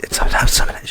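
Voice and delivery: daughter's secretive phone whisper, imitated. Dad mimics daughter dodging who she's on the phone with, whispering. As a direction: whisper it like a kid hiding a call. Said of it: "she'll whisper, and I go".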